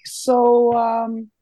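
high, hesitant feeler with small pauses; mock coy request. Cop asking the kids for cash, coy and tentative. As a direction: imitate someone casually fishing, voice lifted. Cop slyly feeling out a bribe.

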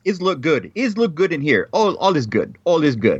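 reassuring patter in mock Russian accent; amateur Russian accent. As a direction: imitate a Russian ultrasound tech. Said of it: "she's, like, going over everything".

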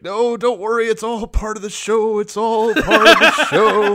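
loud, high announcer cracking into panic; mock tearful reassurance. Announcer covering for a crashing plane, mock tearful panic. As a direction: insist wildly, close to hammed-up crying. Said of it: "he's starting to cry".

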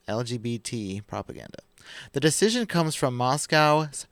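measured, deliberate article reading; podcast host reading the headlines; news article read-aloud. Acted.

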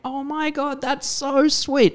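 high, slow, gushing mum voice. Retold or imitated. Mum reacting to the Valentine card, high gush. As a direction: coo it like a proud mother. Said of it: "she was like".

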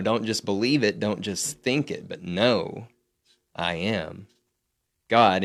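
a slow line that builds to a firm "God"; stress on know. Shown as a demonstration. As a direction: hit "know" and let "God" ring out. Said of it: "emphasis on know".

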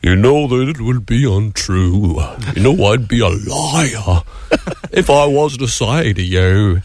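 put-on impression of a singer in a light Boston accent. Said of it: "sang in a Boston accent".

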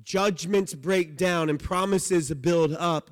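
preacher slowly pressing home Judgments break down and promises build up; slow emphatic preaching. Real, not acted. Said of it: "and that's the point".

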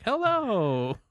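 high lisping mock greeting. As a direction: say hello with a goofy lisp. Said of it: "demonstrated his lisp voice".

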